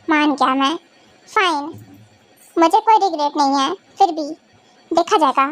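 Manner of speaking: low-pitched, subdued acceptance; resigned. Acted. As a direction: give in grudgingly, thinking aloud. Resigned acceptance after the teasing.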